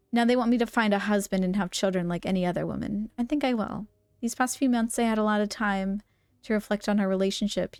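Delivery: even, measured reading voice; composed letter narration; letter read-aloud. Acted. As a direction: read a love note aloud, evenly.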